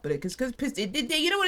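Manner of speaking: tripping over words; stumbling stutter. Real, not acted. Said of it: "I'm stuttering".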